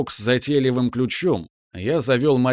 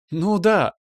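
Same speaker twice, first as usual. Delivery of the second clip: joyful laugh; 8 semitones higher than usual. A narrator's reading. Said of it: "радостно и молодо засмеялась мама".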